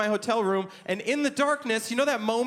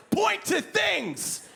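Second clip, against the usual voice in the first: higher, very slow, giggling through it; spaced-out drunk order; 9 semitones higher, 4 dB louder than usual. Retold or imitated. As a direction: stretch it out like a high guy explaining. Drunk stoned order at drive-through.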